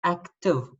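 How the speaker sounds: "active" said clearly, ending on a falling "tiv"; modelled word. Shown as a demonstration. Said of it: "thinking of the word active".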